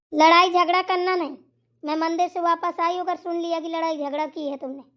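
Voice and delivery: lightly voiced old woman tut-tutting; scolding mother-in-law. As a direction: lecture the girls like a stern old mother-in-law. Mother-in-law threatens the daughters.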